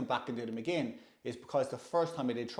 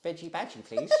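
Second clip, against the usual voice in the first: put-on Bristol accent; 3 semitones higher than usual. Customer ordering at an Indian, suddenly fluent in Bristol accent. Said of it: "It's like I did a Bristol accent".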